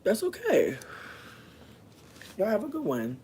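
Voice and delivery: high, sing-song brush-off; mock dismissive. Mocking the roommate's dismissal.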